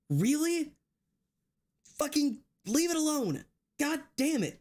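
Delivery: high-pitched exasperated outburst, words dragged up in anger; fed-up streamer venting at people who won't leave things alone; real angry outburst. Real, not acted. Streamer venting at chat about Minecraft servers, real high exasperated anger. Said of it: "so I was just angry out loud".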